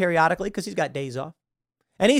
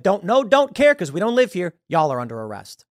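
an out-of-town cop who couldn't care less; dismissive cop; 2 semitones higher, 4 dB louder than usual. Retold or imitated. Outside cops dismissing locals.

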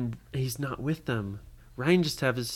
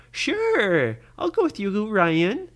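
voiced Lydia; 6 semitones higher, 6 dB louder, slower than usual. Lydia voiced, high and louder.

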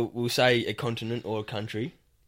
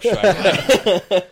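loud, higher and slow, breaking into laughter; emphatic, amused; 8 semitones higher, 9 dB louder, much slower than usual. Real, not acted. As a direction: declare it loudly through a laugh. Joking, laugh on the line.

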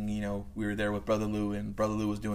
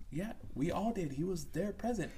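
soft, higher, placating reply; humouring a child; 7 semitones higher, 7 dB quieter than usual. Retold or imitated. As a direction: gently go along with a child.

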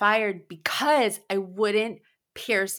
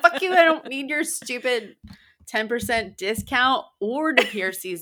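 mock defiant quit; 5 semitones higher than usual. Retold quitting outburst, laughing.

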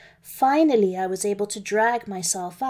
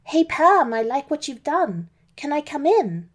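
friendly shout; 5 semitones higher, 3 dB louder than usual. Acted. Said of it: "I shouted".

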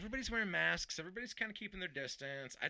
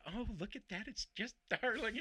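mock doting coo; 8 semitones higher than usual. Teasing his brother, mock doting coo. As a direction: gush over something cute to tease. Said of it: "say it to my brother".

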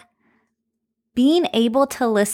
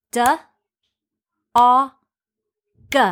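stretched sounds; 4 dB louder, faster than usual. Shown as a demonstration. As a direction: stretch each sound apart. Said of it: "I'm stretching that word out".

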